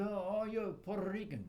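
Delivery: high, loud mock exclamation; mocking Americans. Imitating people who learn he is from Puerto Rico, high and loud. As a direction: play the clueless American gushing. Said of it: "They say".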